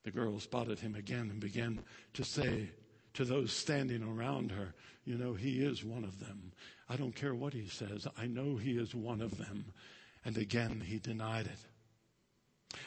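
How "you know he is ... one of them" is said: softer, confiding tone; hushed gossip. Acted. Servant girl telling bystanders, softer confiding gossip. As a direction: tell the bystanders behind his back.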